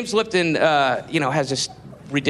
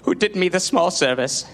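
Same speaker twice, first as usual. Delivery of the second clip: mock tearful Lipton; 4 semitones lower than usual. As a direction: fake the weepy gratitude of a vain host. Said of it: "quoting, he's like".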